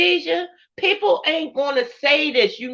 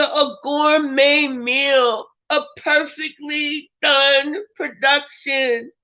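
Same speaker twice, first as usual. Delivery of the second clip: tearful; slower than usual. Real, not acted. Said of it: "I don't know why I'm crying".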